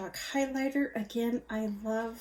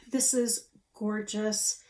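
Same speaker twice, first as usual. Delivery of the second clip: breathing heavy between words. Real, not acted. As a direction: talk while out of breath. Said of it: "I'm breathing heavy 'cause I'm fat and out of breath".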